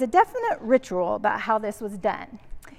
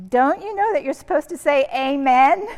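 put-on puzzled children; 5 semitones higher, 4 dB louder than usual. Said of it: "look at us real funny".

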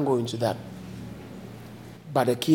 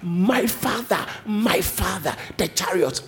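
slow, stretched "My father", then stepping down; deliberate, emphatic cry to a father; drawn-out cry; 3 semitones higher than usual. Retold or imitated. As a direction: draw out MY in a retold call. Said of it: "he cried, Elisha cried".

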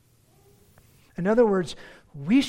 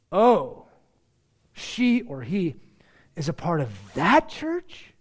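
negative reaction; 3 dB louder, slower than usual. Acted. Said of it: "See the difference?".

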